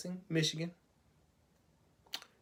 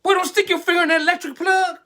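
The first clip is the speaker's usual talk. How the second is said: high, loud, fast scolding shout; mother yelling; 10 semitones higher, 7 dB louder, faster than usual. Acted. Mother yells at her boy near the plug, high and loud. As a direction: shriek the warning like a frantic mom.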